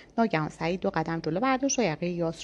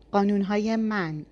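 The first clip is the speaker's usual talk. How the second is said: slow, louder, weight on من; loud, stress on من; 3 semitones higher, 4 dB louder, slower than usual. A narrator's reading. Yas claiming the rules, loud and stressing من. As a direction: hammer the word من slowly. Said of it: "از صدای بلند و تاکیدش روی من".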